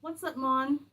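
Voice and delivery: put-on movie-stereotype Caribbean accent. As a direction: imitate a clichéd screen Caribbean accent. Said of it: "West Indian people as saying".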